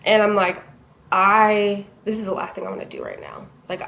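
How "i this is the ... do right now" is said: in a funk. Retold or imitated. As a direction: retell a glum inner thought under your voice. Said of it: "was in a huge funk".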